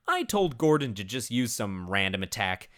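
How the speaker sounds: ordinary talk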